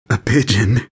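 lightly gasped, left hanging; gasped through laughter. A narrator's reading. Narrator helpless with laughter at the pigeon, gasping. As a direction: squeeze the words out between gasps. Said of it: "I gasped again".

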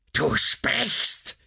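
high, breathy shriek; crying out. A narrator's reading. Wife hears her silent lover speak, high cry out. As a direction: cry out suddenly, pitch leaping right up. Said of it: "schrie die Frau auf".

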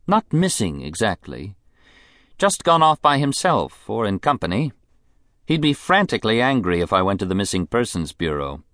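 high, languid society woman; a spoiled, bored rich lady; rich invalid wife. Acted. Mrs Sampson voice.

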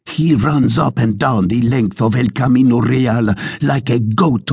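mildly hammed-up blustering sergeant; a boastful soldier working himself up; ranting tirade. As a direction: sergeant ranting to the tavern about Zorro. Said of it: "continued his tirade".

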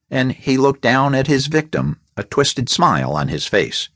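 ordinary delivery

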